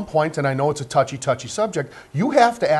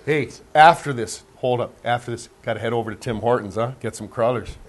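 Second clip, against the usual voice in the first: mock Canadian accent; 4 semitones lower than usual. Panelist teasing the Canadian host about Tim Hortons, in a mock Canadian accent. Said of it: "making fun of my Canadian accent".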